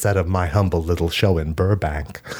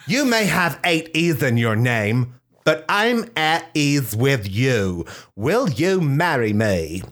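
romantic proposal; 6 semitones higher, slower than usual. Pretend. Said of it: "Portia de Rossi said".

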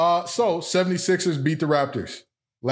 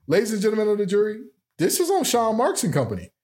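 fast, raised lawyer pitch; passionate closing argument; 5 semitones higher, faster than usual. Pretend. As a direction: argue it like a trial lawyer. Mock courtroom closing argument.

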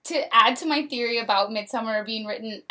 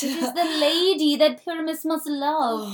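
dramatic play reading; 5 semitones higher, 5 dB louder than usual. Acted.

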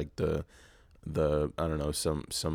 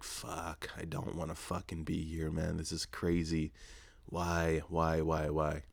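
under-breath grumble; 6 dB quieter than usual. Retold or imitated. Recalling his frustration.

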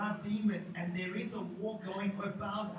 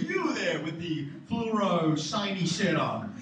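prophet calling out; 5 dB louder than usual. Retold or imitated. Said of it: "a prophet comes and goes".

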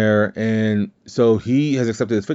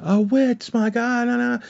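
put-on high, frightened children's cries; scared kids. The kids running from Wanda, high frightened cries. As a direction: shriek like terrified kids.

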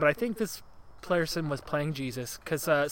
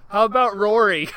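high, loud mock lisping crowd shout; Roman lisp accent; 6 semitones higher, 11 dB louder than usual. Crowd jeering Pontius with a lisp-baiting name, loud mock shout. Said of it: "accent that kinda sounds like a lisp".

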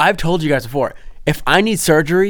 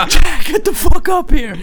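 high, loud shout up the stairs; calling shout; 6 dB louder than usual. Retold or imitated. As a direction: summon him upstairs with a yell. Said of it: "Danielle's like".

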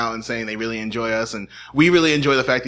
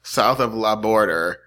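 mock French; 3 semitones lower, slower than usual. Shown as a demonstration. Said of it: "That is French".

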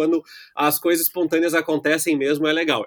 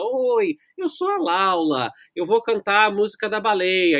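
put-on little girl voice; 5 semitones higher than usual. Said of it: "Eu vou tentar encenar".

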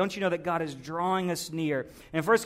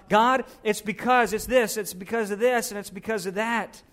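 blurting it out; 3 semitones higher, 4 dB louder than usual. Acted. Elijah spilling his excuses to God, blurted out. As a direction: pour the reasons out in mock complaint. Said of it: "begins to blurt it all out".

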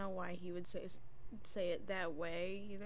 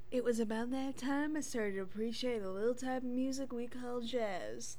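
mock speech impediment; 3 semitones higher than usual. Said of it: "you sound like you have a fucking speech impediment".

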